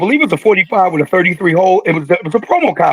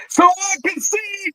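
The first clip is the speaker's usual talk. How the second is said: routine answer; 12 semitones higher, 5 dB quieter, slower than usual. Retold or imitated. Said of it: "And then he said".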